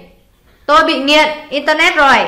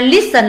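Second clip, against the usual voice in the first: "listen" stressed on its first syllable, lis. Shown as a demonstration. Teacher picking the odd word out, first syllable of listen stressed. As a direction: put the weight on the start of "listen". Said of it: "là âm một".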